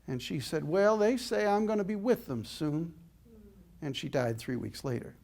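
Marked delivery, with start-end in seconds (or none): 0.6-2.9 put-on high little-girl Texas voice; little Texas accent. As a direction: imitate a Texas child, pitched up. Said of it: "in her little Texas accent".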